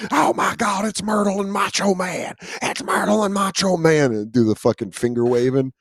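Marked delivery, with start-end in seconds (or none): 0.1-4.1 higher, excited ring announcer shout; Jim Ross call. Retold or imitated. Owner announcing dog and himself, excited commentator call. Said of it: "I do the Jim Ross".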